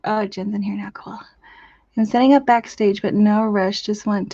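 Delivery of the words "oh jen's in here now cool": unvoiced quiet notice; whisper. Real, not acted. Streamer whispering on noticing a viewer in chat. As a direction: murmur it under your breath.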